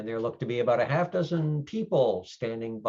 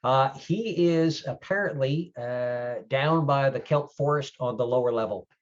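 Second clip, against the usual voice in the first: hesitant clerk relaying a message, pitched up; slightly raised young-clerk voice; young desk guy; 4 semitones higher, 5 dB louder than usual. Acted. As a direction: play a young guy passing on directions. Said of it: "and he comes over and goes".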